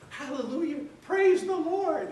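loud, high, drawn-out hallelujah; joyful shout. Retold or imitated. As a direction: shout it to the heavens, slow and high. Healed man leaps up rejoicing.

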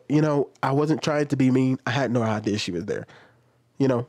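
patiently explain, never raise your voice; calm polite reply. Pretend. Retail worker calmly explaining the shirt remark to her boss.

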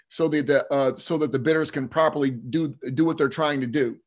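slight lisp from new braces. Real, not acted. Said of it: "so if I'm lisping".

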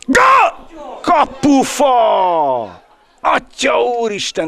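very high shouted goal call falling to dismay; excited hungarian sports commentary. Real, not acted. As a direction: scream goal, then groan at the post. Shot hits the post. (izgatott magyar sportkommentár)

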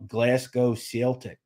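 slow attempt at a Scottish accent. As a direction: draw out a mock Scottish accent with a hint of Australian. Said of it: "that's a little Australian as well".

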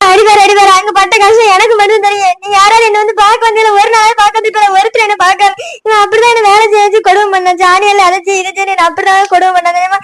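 high, wailing tearful voice; tearful complaint. Acted. Wife tells her family how she was made to slave, crying. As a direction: pour out grievances in a high, crying whine. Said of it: "ஏய், அழாத சின்னதாயி".

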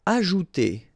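"Ajouter" said the French way; French word. Shown as a demonstration. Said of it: "J is really pronounced like J".

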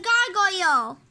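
loud, drawn-out hero name; play-acted heroic declaration; heroic proclamation. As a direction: announce your superhero name boldly.

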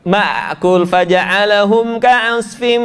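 slow recited verse "Ma'kul faja'alahum ka'asfim"; Quran recitation. Shown as a demonstration. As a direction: recite it slowly, drawn out. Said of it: "ketika mati suka jadi ba".

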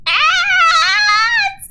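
high squeal breaking into laughter; playful fright through laughter; giggly scared. Real, not acted. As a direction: stretch it out slowly, high and giggling. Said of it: "I'm scared of Fancy Drill".

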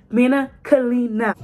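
drawn-out shout. Shown as a demonstration. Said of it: "Get it right or get it tight".

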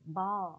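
"ball" with an open American aw; American pronunciation. Shown as a demonstration. Teacher following the American syllabus, American pronunciation of "ball". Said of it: "theo Anh Mỹ nên là chúng ta sẽ đọc là".

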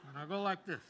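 laughter passed off as sobs; laughing, faking crying. Pretend. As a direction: laugh but pretend to weep. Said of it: "I just gotta act like I'm crying".

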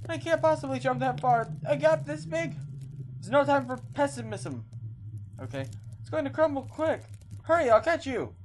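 put-on high-pitched frightened girl voice; voiced young girl. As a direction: play the scared girl calling out. Voices Sissy character.

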